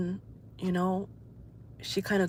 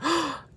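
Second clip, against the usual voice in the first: gasp; 9 semitones higher than usual. Retold or imitated. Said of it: "I gasped".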